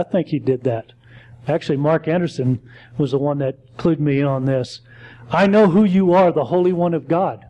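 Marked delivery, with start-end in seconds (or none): 5.3-7.4 quoted demon. Retold or imitated. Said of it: "He said".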